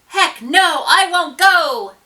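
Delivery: high, loud protest chant; shout. A narrator's reading. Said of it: "Imogene cried".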